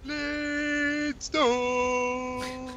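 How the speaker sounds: Blade Storm! in a high, loud cartoon caveman yell; Captain Caveman voice. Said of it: "you should do it like Captain Caveman voice".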